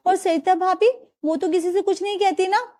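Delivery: worried questions down the phone; concerned daughter. Acted. Daughter asks her tired mother on the phone, lightly voiced.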